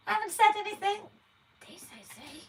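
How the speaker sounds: high puppet voice, lips still; squeaky dummy talking without moving lips; ventriloquist dummy voice. Pretend. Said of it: "you're never gonna be Jeff Dunham".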